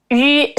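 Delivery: 日 said as a rounded "yu" vowel; isolated ü sound. Shown as a demonstration. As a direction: demonstrate the lone vowel 日 with rounded lips. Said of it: "This is".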